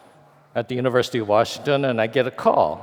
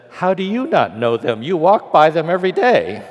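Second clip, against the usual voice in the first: rising into a louder, higher retort; incredulous retort; 6 semitones higher, 4 dB louder than usual. Retold or imitated. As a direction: throw it back at him in disbelief. Her retort to the executive.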